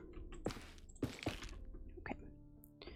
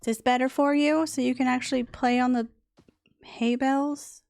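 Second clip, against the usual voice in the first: louder, higher coaxing pet voice; pet talk; 3 semitones higher, 6 dB louder than usual. Real, not acted. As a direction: coo at the animal loudly. Talking to pet camel.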